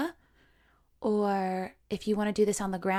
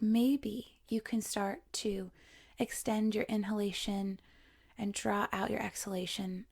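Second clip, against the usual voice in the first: softer, unhurried meditation voice; guided meditation; 5 dB quieter than usual. Acted. Yoga teacher guiding students to notice their breathing, calm meditation voice. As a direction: ease the listener into quiet breath awareness.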